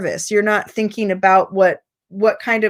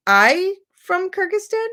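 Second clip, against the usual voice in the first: high rising "I from Kyrgyzstan?" with weight on "from"; stress on the mistake; 8 semitones higher than usual. Shown as a demonstration. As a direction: question it back, hitting "from" where the verb is missing. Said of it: "Put the emphasis on where the, the mistake was".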